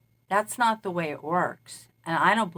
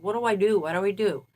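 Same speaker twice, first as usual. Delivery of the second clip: frustrated father; 2 semitones higher, 3 dB louder, faster than usual. Retold or imitated. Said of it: "totally frustrated".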